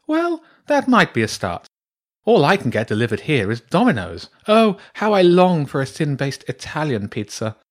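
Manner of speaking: high-pitched, theatrical longing; wistful badger priestess. Badger priestess offered pizza, longing and theatrical.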